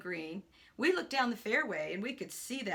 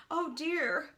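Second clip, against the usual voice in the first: higher, dismayed exclamation; worried friend; 4 semitones higher than usual. Acted. Friend kneels by fallen man, mildly dismayed. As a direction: fret over a hurt friend.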